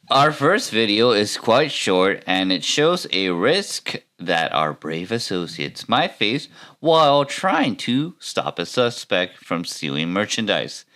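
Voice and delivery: lightly put-on news presenter voice; punchy, lilting reporter intro; newscaster. YouTuber introducing a shoplifting clip, mock newscaster read. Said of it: "Let me try my best newscaster voice".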